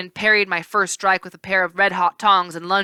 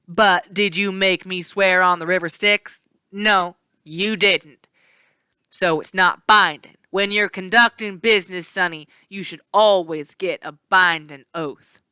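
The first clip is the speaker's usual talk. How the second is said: smug villain; 4 dB louder than usual. Acted. Villain lectures hero.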